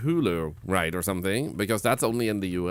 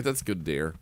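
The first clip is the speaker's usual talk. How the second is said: mock patronizing parent; 6 semitones lower, 5 dB quieter than usual. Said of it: "and I'm like".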